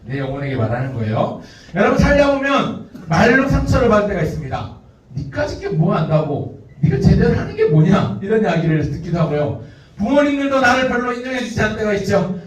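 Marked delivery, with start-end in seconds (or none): 5.2-8.2 mock scolding. Quoted insult from others.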